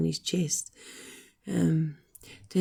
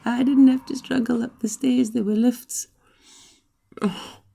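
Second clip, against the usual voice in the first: exasperated; 6 semitones higher, 6 dB louder than usual. Real, not acted. Exasperated realisation about the lifts.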